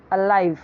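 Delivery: "अलाइव" with a weak first vowel and falling end; correct pronunciation of alive. Shown as a demonstration. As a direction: say "अलाइव" as uh-LIVE. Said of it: "तो इसे अलाइव नहीं बोलना है".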